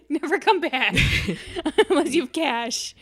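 laughing, playful banishment; heckling crowd. Acted. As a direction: keep heckling while giggling. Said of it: "everyone goes, like, straight face again".

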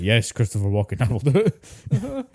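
laughing meek yes-man; giggling, drawn out and submissive; laughing, slowed mock obedience. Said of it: "And you're like".

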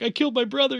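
high-pitched mock wail; imitated crying. Child thinks he killed his twin, wailing. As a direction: act out a tearful kid in panic. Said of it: "like, crying".

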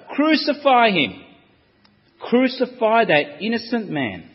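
"Crucify" yelled loud and high. Acted. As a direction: bellow it as the mob swells. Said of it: "But yet it got louder".

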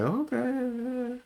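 very high, soft, drawn-out reply; put-on high, soft mom voice; imitating doubtful mom. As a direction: stretch it out high and quiet as mom. Voicing mom's reply to excuse.

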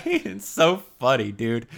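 high burst of laughter into words; laughing. Real, not acted. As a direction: laugh through the line. Laughing at cartoon.

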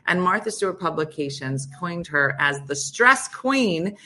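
lively radio host reading a bio; guest introduction read. Real, not acted. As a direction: introduce the expert with measured emphasis on her credentials. Reads the guest's biography.

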